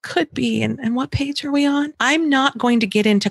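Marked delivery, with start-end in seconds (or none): 0.0-1.9 gentle redirect. Shown as a demonstration. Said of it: "I can be like".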